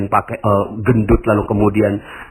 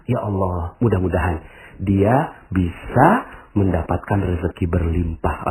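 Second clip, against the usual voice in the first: pious kind words; 4 semitones lower than usual. Acted. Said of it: "Ngomongnya gini".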